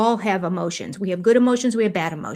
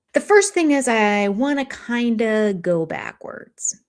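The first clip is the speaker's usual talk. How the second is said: mock drawn-out pauses; slower than usual. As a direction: stretch "backwards" out as if stalling. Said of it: "he does these big, long, pregnant pauses".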